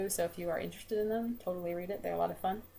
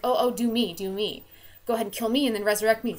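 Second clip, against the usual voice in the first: eager excited plea; 3 semitones higher, 8 dB louder than usual. Retold or imitated. Death lord begging the twins for the trick, excitedly. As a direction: gush like a kid wanting a turn. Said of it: "so impressed and so excited".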